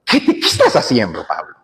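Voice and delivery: the Lord rebuking Saul on the road; God confronting the persecutor, urgent. Acted. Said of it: "Viene el Señor y le dice".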